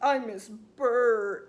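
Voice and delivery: very slow, drawn-out sulky whine; lightly voiced pouting child; mock pouting five-year-old. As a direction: sulk it like a little boy, slowly. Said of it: "like, pouting".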